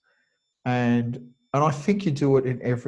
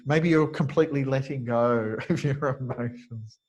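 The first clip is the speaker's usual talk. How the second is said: amused. Real, not acted. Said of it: "you guys crack me up".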